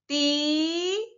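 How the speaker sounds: Tigre stretched, rising at the end; sounding out. Shown as a demonstration. Teacher sounds out the word while writing: stretched. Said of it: "Ahora escribamos tigre".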